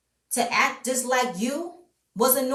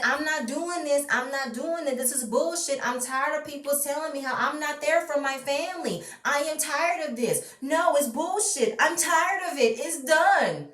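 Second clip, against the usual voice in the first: mock tantrum; 6 semitones higher than usual. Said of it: "Portia gets upset, throws a tantrum, say".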